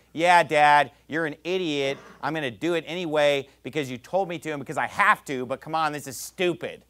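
put-on grudging child humouring dad; mildly mocking teenager; sarcastic teen. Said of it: "You give your parents that look like".

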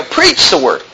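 "preach" punched, "the word" tailing off; emphasis on the opening word, preach; stress on PREACH. Shown as a demonstration. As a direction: lean on preach, not on word. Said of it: "the emphasis is on the preach".

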